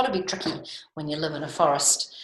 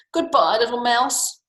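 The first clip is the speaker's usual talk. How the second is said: fleeing fox; 6 semitones higher, 6 dB louder than usual. Acted.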